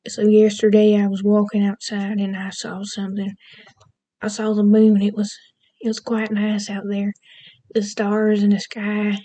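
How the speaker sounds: light Southern US accent; a demonstrated Southern accent, at an easy everyday pitch. Shown as a demonstration. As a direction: say it with a gentle Southern twang. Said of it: "here's a Southern accent".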